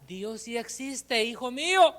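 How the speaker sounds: mother's voice. Acted. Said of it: "la voz de su madre le decía".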